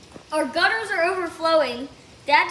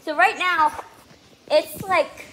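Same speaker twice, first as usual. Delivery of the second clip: raised excited voice over pounding hail; in a hailstorm; 2 semitones higher, 5 dB louder than usual. Real, not acted. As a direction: talk loud over the storm outside. Excited vlog during loud hailstorm.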